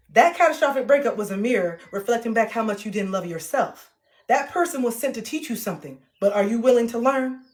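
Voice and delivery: lively, emphatic audiobook read in her own sassy style; reading with attitude. Shown as a demonstration. Author demoing her audiobook for followers, full of attitude. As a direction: read it with attitude, nothing like Siri. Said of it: "I'm not gonna be reading it like Siri".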